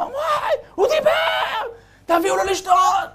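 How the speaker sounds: high, slow, thrilled exclamation; joyful father's cry. Acted. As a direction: cry out in delight that he spoke. Father overjoyed son spoke.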